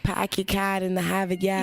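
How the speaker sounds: imitated Boston accent, broad open "ar". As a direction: mimic Bostonians dropping their r's. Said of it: "Boston, they be like".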